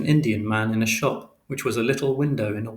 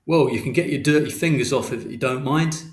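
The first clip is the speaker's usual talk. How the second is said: irritated shopkeeper; 3 semitones higher, 3 dB louder than usual. A narrator's reading. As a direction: tell the kid off with mock politeness.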